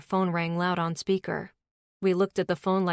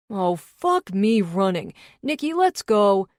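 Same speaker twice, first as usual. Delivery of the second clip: shouted; 2 semitones higher, 7 dB louder, slower than usual. Acted. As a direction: yell it with eyes covered, mortified. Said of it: "he shouted".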